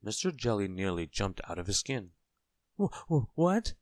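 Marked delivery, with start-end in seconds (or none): 2.8-3.7 high, stuttering yelp; startled shout. A narrator's reading. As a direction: stammer out a high-pitched, frightened shout. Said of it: "he shouted".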